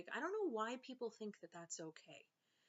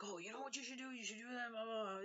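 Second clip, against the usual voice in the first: higher, lightly put-on know-it-all voice; mocking a know-it-all; 4 semitones higher, faster than usual. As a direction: mimic a pushy friend giving advice, a touch snooty. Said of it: "then don't be like".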